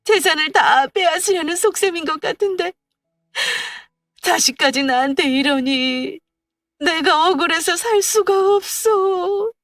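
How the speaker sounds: high, slow keening lament; wailing in grief. Acted. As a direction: widow wailing at her husband's urn. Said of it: "목을 놓아 울었습니다".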